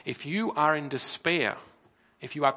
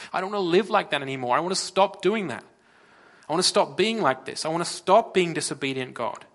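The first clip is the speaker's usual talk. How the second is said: pleading outburst; 3 semitones higher, 4 dB louder than usual. Acted. Voiced sinner pleading to God.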